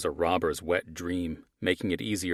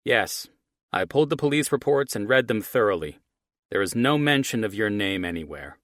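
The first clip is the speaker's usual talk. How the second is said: villain on phone; 4 semitones higher, 5 dB louder than usual. Acted.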